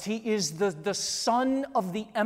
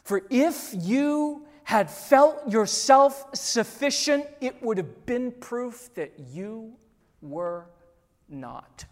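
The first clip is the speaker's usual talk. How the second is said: Aslan's gentle reply; 2 semitones higher, 3 dB louder, slower than usual. Retold or imitated. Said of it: "said Aslan".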